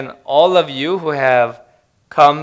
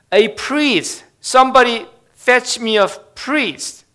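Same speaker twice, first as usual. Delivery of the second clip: higher-pitched, urgent mock plea; acted dying gasp; 9 semitones higher than usual. A narrator's reading. Dying accident victim begs the crowd for a priest, acted gasping plea. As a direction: call out for help as the dying man. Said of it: "gasped the dying man".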